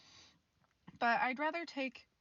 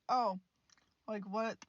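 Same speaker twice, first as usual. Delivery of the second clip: talking while chewing a cough drop; mouth full; slower than usual. Real, not acted. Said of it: "I gotta chew a little bit".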